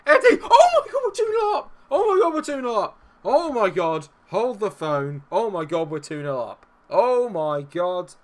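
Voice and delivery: high screaming, easing into loud disbelief; real explosive elation; ecstatic goal celebration. Real, not acted. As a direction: scream the goal out, then reel from it. Goal puts them two up.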